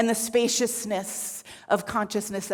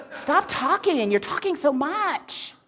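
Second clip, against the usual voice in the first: higher-pitched, put-upon whine; whiny complaint; 5 semitones higher than usual. Acted. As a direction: whine like a disturbed dozer. Shiva whines at nagging Shakti.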